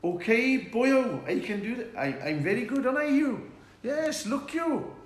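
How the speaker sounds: high, singsong Welsh accent. Shown as a demonstration. Comedian showing Janine his Welsh, high Welsh accent. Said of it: "A Welsh accent".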